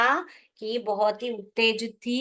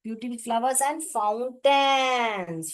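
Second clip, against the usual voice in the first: very slow, each word drawn out; slow dictation; much slower than usual. Shown as a demonstration. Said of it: "और किसको wow बोला?". (शब्द-शब्द धीरे-धीरे लिखवाते हुए)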